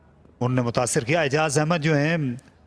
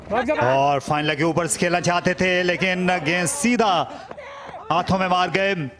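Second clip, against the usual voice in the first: higher, animated call of the miss; excited cricket commentary; 4 semitones higher than usual. Real, not acted. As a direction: react live to the near chance. Batter misses, commentator reacts. (उत्साहित cricket commentary)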